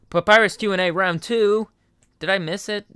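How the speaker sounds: breathless thrilled whisper; hushed fan excitement; excited whisper. Real, not acted. Excited reaction to new video.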